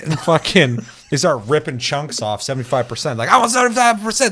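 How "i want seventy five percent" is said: mock French accent. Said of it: "With my perfect accent".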